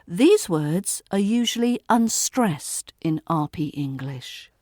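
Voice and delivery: usual speaking voice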